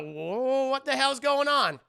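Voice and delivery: loud, high imitated astonishment; mock crowd shock. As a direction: exclaim like a stunned crowd, hammed up. Voices the whole crowd's shock.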